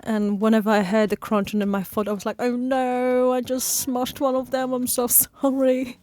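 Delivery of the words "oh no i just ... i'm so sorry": higher, drawn-out pleading regret; mock-sorry little wail; mock-remorseful apology. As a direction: apologise pitifully, half laughing. Retells apologising to a crushed snail.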